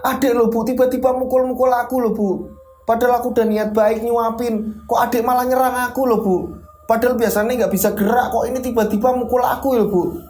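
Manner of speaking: high, agitated protest to mother; upset complaining. Retold or imitated. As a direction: complain hurt and indignant. (Ajeng mengadu ke ibunya dengan nada tinggi dan kesal)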